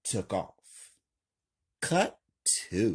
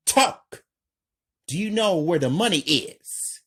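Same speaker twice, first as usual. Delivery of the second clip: high loud fast demand; demanding shout; 9 semitones higher, 7 dB louder than usual. A narrator's reading. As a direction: bark the question at him. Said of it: "Marcus is deeply calm".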